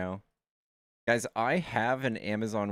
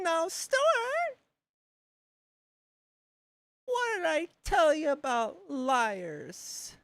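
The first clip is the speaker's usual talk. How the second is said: Stewart. Acted. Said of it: "Stewart was the best".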